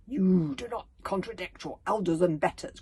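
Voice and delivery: loud, stern scolding grandmother; stern cry. A narrator's reading. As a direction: put the child firmly in his place. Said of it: "cried his grandmother sternly".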